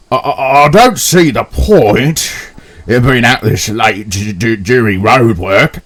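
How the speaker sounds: stammering, trying to sound tough; shaky nervous voice. Acted. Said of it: "trying to hide his shaken voice".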